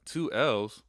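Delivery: mock the student's confusion; puzzled student voice. Teacher imitates a puzzled student asking about spelling. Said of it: "So I know you're like".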